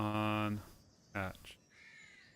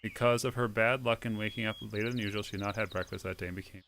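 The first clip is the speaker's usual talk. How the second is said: reading a fairy tale aloud over music; steady storybook read-aloud; story narration. Acted. Reads the game's story aloud.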